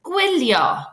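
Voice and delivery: gwylio said slowly and clearly as GWIL-yo, Welsh teacher modelling; careful Welsh teacher demo of gwylio; Welsh pronunciation model. Shown as a demonstration. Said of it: "can you say after me".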